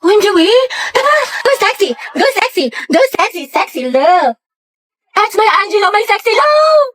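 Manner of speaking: high, giddy chant; giddy cheer. Acted. Schoolgirl cheering her crush at the basketball court.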